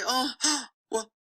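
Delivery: lightly voiced owner giving in; mock hesitant owner. Mimicking an owner who gives in.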